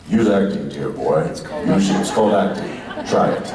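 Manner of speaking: Olivier impression. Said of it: "Sir Laurence Olivier is like".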